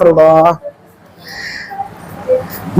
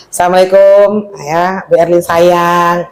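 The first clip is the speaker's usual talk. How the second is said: sweet greeting; 3 semitones lower, slower than usual. Retold or imitated. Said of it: "Pasti bunga-bunga".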